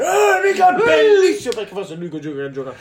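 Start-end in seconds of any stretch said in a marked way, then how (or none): 0.0-1.5 put-on high, loud childish whine; little kid voice. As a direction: squeak it like a bratty kid. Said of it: "un bambino che dice". (voce acuta da bambino capriccioso)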